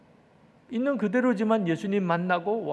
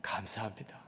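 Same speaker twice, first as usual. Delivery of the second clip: hushed, lower-pitched thanks to God; thankful prayer; 4 semitones lower than usual. Retold or imitated. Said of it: "이제는 또 감사가 터졌어요". (나직한 감사 기도 재연)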